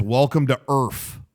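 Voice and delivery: "Earth" said with an f at the end, "Earf"; slow quote, ending Earth on an f sound; misquoted "Earf". Retold or imitated. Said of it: "always whatever, as".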